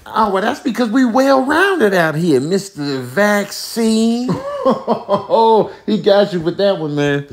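very high, cackling germ; laughing bacteria voice. Acted. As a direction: crack up at the jab in a squeaky voice.

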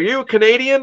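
high-pitched mock interrogation; suspicious questioning. Pub regular asking an American where he's from, suspicious.

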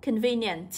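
"convenient" starting on a clear k. Shown as a demonstration. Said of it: "được đọc là âm K". (đọc "convenient" mở đầu bằng âm k)

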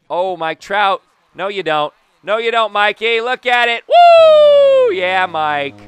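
high, loud yelling peaking in a whoop; jubilant taunting shout. Real, not acted. Player taunting the fielder over a homer, jubilant shouting. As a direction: build to a screamed woo, then crow. Celebrates home run over Mike Trout.

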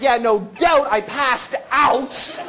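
slow, drawn-out punchline; comic exasperation. Retold or imitated. Jumper answering the praise on the ground, comically exasperated. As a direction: stretch out the confession.

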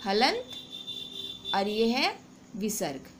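drawn-out careful naming; teacher slowly stressing key words; slow, stressed terms. Shown as a demonstration. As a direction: spell the terms out slowly for students. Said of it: "इतना ज़रूर याद रखिए".

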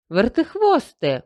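calling out. A narrator's reading. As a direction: call him from behind the bushes. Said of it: "почулося з-за кущів".

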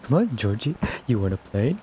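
lightly voiced creepy clown; a hint of a sinister clown. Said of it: "You sound like you're one".

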